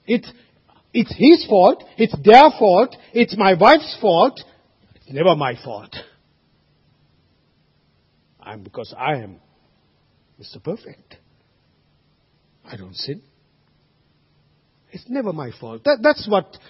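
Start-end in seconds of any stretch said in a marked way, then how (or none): 0.1-4.4 louder, indignant whine pointing at others; mock blame-shifting. 5.0-15.8 much lower, soft smug murmur; preacher mocking the self-righteous Mister Perfect; mock self-righteous mutter.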